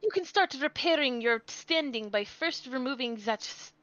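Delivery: put-on haughty German-accented prosecutor; light stagey German accent. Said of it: "Flip-flopping between a Southern and a German accent".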